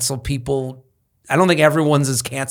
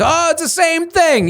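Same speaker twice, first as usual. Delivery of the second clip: mocking voice; 13 semitones higher than usual. Mocking Italians' claim.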